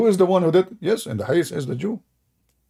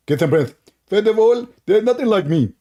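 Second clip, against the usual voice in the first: mock rival voice; 9 semitones higher, 6 dB louder than usual. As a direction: play the rival confessing, hammed up.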